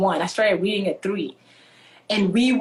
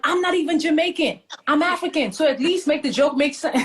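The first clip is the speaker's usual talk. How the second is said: higher-pitched retold protest, laugh breaking in at the end; amused indignation; 6 semitones higher than usual. African girl corrects kids' Jamaican jokes, amused indignation. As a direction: correct the teasers in mock outrage.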